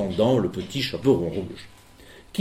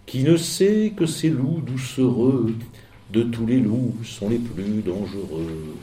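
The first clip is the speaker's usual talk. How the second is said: lecture solennelle de poème; slower than usual. Acted. Lit la moralité en vers.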